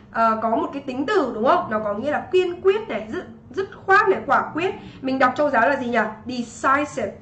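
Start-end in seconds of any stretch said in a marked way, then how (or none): 6.3-7.1 "Decisive" with an "eye" vowel in the middle; long I sound. Shown as a demonstration. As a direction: model "Decisive" as de-SIGH-sive. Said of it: "Đọc là decisive thì nó sẽ là âm gì?".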